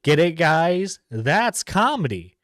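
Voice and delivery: loud, drawn-out mock delight at a joke; mocking sarcasm. Reactor jeering at a video's accent joke, mocking sarcasm. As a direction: sell the lame joke loudly, sarcastically.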